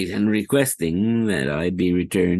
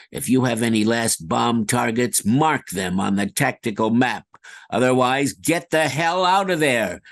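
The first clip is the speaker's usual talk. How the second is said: military radio voice; 4 semitones higher than usual. Acted. Military radio game lines.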